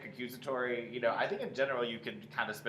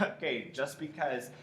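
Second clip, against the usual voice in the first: tossed off; 2 semitones higher, slower than usual. Shown as a demonstration. Director showing actor the calmer start, tossed off. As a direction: toss it off casually with a little laugh. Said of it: "It can still be that toss of".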